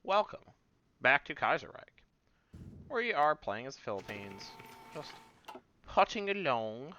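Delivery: mock posh British host voice; fake British accent. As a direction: put on a hammy British accent to open the show. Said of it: "I'm affecting a fake British accent".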